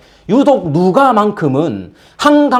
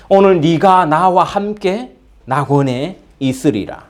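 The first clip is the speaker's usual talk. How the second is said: solemn promise; slower than usual. Acted. Quoting Jesus's promise.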